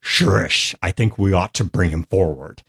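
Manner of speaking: lightly voiced Knoll, from deep in the throat. Shown as a demonstration. Player demonstrates his main Knoll character, lightly throaty creature voice. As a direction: put a touch of throaty guttural into it. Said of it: "really deep in the throat".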